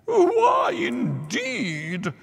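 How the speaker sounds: very high, fluttery squeak; a tiny butterfly echoing, squeaky. A narrator's reading. Butterfly voiced in story.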